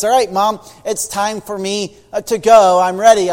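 put-on bright, proud little boy voice; a small kid announcing he's ready; eager little boy. Little boy leaving mother.

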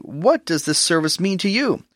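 a mildly sarcastic question. Acted. Wicked child questions the Passover service, mildly sarcastic. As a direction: ask with a light touch of sarcasm. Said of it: "Now notice the sarcastic tone saying".

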